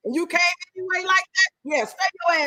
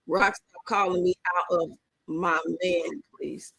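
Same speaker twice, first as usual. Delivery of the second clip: slow mock reread; 9 semitones lower, 4 dB quieter, slower than usual. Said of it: "Wait a minute".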